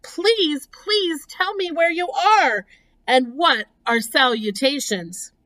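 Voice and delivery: very high, pleading outcry; frantic young pig's acted plea; screamed plea. A narrator's reading. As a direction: beg urgently in a high storybook voice. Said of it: "screamed Wilbur".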